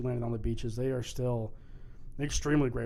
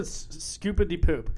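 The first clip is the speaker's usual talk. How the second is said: mock lyric; 5 semitones higher, 4 dB louder than usual. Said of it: "he said".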